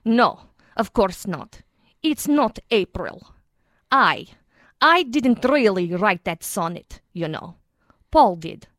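proper British RP; crisp received pronunciation, wistful; a hint of RP British; RP accent. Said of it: "Proper, R P".

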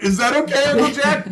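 high, loud mock-anxious kid's call; child calling out. Nephew sent under the house checks with uncle, high hollered question.

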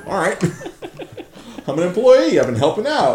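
giddy laughing disbelief; high, laughing self-quote. Retold or imitated.

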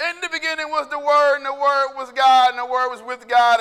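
loud, pounding recitation of scripture; forceful preaching. Acted. Preacher proclaiming Jesus' eternity to congregation, forceful preaching. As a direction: hammer out each phrase at full volume.

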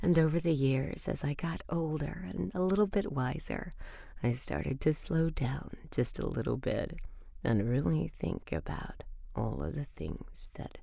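aging life story. Acted. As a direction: voice shifting from girl to old woman fading to whisper. Life story from youth to old age.

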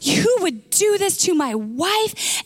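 mildly acted outrage, drawn out; lightly dramatized indignant question; outraged king. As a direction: retell a king's slow indignation. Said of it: "the king is just outraged".

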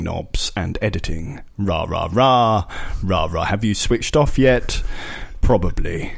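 slow, slightly posh radio voice; drawn-out mock podcast presenter. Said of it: "doing a slightly posh voice".

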